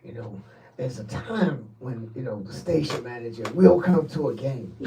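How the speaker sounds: low, hushed speech with pauses; mock-solemn telling. Station manager recalling his promise to the guys, low and hushed. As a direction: drop low and soft, as if recounting a prophecy. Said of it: "Why are you saying it like that?".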